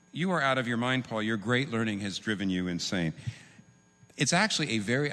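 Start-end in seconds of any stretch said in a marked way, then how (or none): 0.1-3.1 dignified reading. Retold or imitated. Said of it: "makes this sound pretty dignified".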